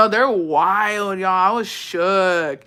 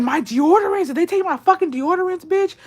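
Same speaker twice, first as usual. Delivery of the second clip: mock outrage; 10 semitones higher than usual. Mock outrage over deodorant.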